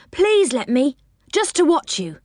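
put-on high pleading child voice; begging. A narrator's reading. Rick begging Joe to come along, pleading. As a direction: wheedle it like a little boy. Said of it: "he begged".

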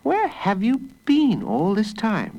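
high-pitched, pressing motherly voice; high, exclaiming mum; questioning mother. A narrator's reading. Mother questions late child.

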